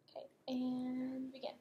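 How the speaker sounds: whispered cue to begin; whispering. Real, not acted. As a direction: whisper the go signal. Clinician cueing while patient rests.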